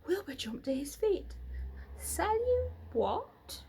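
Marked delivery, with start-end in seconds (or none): 2.0-3.6 high startled gasp then question; surprised cry. A narrator's reading. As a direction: stumble on it, startled. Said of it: "he cried".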